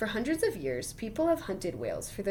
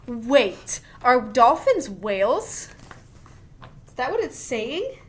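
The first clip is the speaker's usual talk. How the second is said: surprised question; 4 semitones higher, 9 dB louder, slower than usual. Real, not acted. Reader stops to question book.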